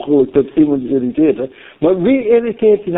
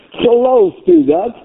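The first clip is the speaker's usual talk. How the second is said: high, drawn-out insistent question; fervent challenge; 11 semitones higher, slower than usual. Real, not acted. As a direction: press the congregation, pitch soaring. Preacher challenges congregation, repeating the question.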